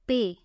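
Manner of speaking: "pay" with a long German e; German letter P. Shown as a demonstration. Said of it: "it sounds like pay".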